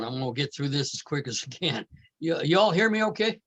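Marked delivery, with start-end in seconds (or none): 0.0-1.9 strained tired voice; voice giving out. Real, not acted. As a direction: push through a failing voice. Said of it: "my voice is giving out".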